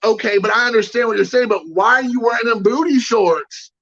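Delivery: put-on insistent kid. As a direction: imitate a kid who keeps digging in. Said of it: "the kid's not letting it go".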